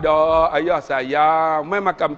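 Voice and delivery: slow, drawn-out fatherly coaxing; imitated coaxing. Preacher as father coaxing child to eat, slow coaxing.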